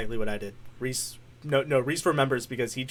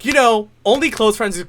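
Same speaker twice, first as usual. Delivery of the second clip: higher, louder mild objection; Spider-Man; 6 semitones higher, 6 dB louder than usual. Retold or imitated. Superhero objecting to a nickname, raised-pitch imitation. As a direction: lift the pitch, correct him firmly. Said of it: "and then he goes".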